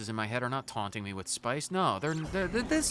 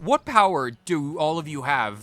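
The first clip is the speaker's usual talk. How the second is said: amazed questioning; 6 dB louder than usual. Acted. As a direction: demand answers in awe.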